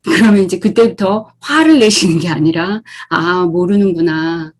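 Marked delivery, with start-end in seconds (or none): 3.1-4.5 accepting reply. Shown as a demonstration. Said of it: "이렇게 하셔야 돼요".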